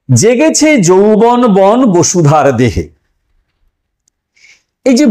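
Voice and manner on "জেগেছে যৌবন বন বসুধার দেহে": slow, measured reading of a verse line; poem recitation. Shown as a demonstration. Teacher reciting an example verse to students, slow and measured. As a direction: read the example verse deliberately slowly. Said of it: "দ্বিতীয় উদাহরণ দেখুন".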